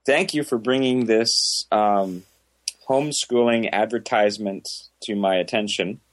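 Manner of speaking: dry mock praise; sarcastic. Real, not acted. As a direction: fake admiration, deadpan. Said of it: "The sarcastic agreeing with it".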